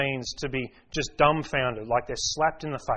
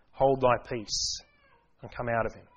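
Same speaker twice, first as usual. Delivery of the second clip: stern rebuke; 3 semitones lower than usual. Retold or imitated. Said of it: "Jesus rebukes him".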